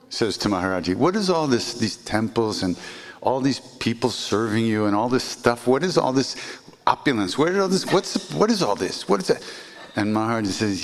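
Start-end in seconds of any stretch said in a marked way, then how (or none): 1.0-9.4 higher, indignant questioning as the sadhu; scolding wandering sadhu. Retold or imitated. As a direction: demand it in disbelief. Sadhu scolding Maharaji's wealth.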